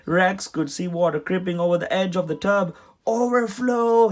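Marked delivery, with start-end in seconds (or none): 3.1-4.1 much higher, louder, slow panicked cry; terrified cry. A narrator's reading. Rex panicking as water spills over the tub. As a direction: yell it in panic. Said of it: "he cried in terror".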